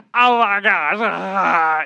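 a put-on meltdown, loud and high; mock whine. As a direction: wail like a melting kid. Whining child acted out.

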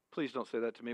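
ordinary talk

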